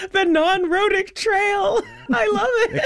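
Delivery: squealing, high laugh through the words; delighted laughing shriek. Real, not acted. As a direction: crack up at the phrase.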